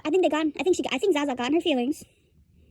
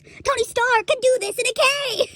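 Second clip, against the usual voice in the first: high, drawn-out exclamation; comic high-voiced proclamation; high-pitched outburst; 8 semitones higher, slower than usual. Real, not acted. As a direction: push it up high and stretch it out. Outburst mocking the console excuse.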